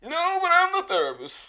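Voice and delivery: hammed-up self-important therapist; superior therapist. Mocking a superior therapist talking over clients, pompous high shout. Mock therapist claiming authority.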